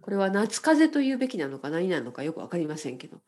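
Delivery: blocked-nose voice; talking through a stuffed nose; nasal voice. Real, not acted. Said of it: "鼻声です".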